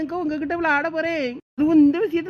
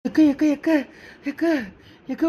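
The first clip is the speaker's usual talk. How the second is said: tearful, breathless calls of akka; distraught young wife calling for her older sister; crying, calling sister. Acted. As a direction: run in sobbing with bad news. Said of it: "ஏன் அழுதுட்டு கிடக்க?".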